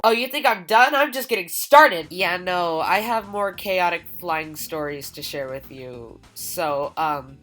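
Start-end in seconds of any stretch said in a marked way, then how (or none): 0.0-2.1 higher, louder hyped reply; fired up and ready; excited. Acted. Energetic reply to skeptic.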